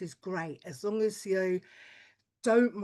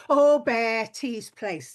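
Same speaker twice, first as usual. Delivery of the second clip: put-on knowing old lady; 6 dB louder, much slower than usual. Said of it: "they will say".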